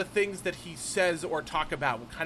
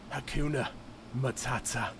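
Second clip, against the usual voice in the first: put-on Northern English accent; 4 semitones lower than usual. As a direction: imitate girls parodying a Northern English accent. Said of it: "that Northern English accent".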